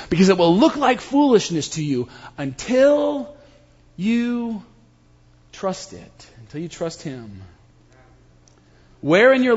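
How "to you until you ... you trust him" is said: fading from normal to very soft; dropping to hush. Acted. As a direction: let it sink to almost nothing. Sermon climax drops to hush.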